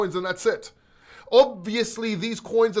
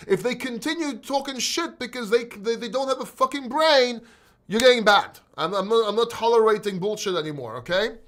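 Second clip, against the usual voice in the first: irritated rant; 4 semitones higher, 3 dB louder than usual. Real, not acted. Ranting about trolls.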